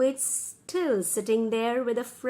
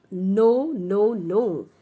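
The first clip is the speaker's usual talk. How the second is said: loud, mock-angry witch; angry refusal; 6 dB louder, much slower than usual. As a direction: refuse hard, louder on the first word. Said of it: "Witch Griselda is already angry".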